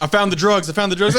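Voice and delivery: high triumphant yell; excited shouting. Pretend. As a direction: cop shouting during a raid. Acted police raid.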